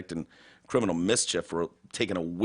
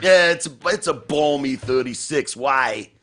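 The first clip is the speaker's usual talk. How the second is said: higher, louder, slow deadpan assistant voice; mock Alexa answer; 5 semitones higher, 6 dB louder, slower than usual. Imitating Alexa answering the weather, higher and slow. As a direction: play the smug smart speaker reading the weather.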